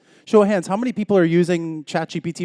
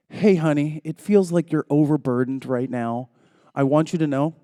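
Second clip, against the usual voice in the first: retold tender reassurance; 3 dB louder than usual. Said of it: "I called my wife and I said".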